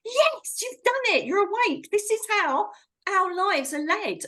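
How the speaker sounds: excited reassurance. Retold or imitated. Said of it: "And I'm saying to her".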